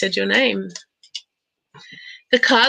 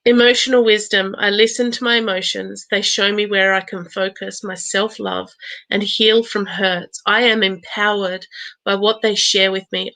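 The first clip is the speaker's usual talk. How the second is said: affirmation reading. Acted. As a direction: read it out as a calm personal vow. Reads an affirmation card.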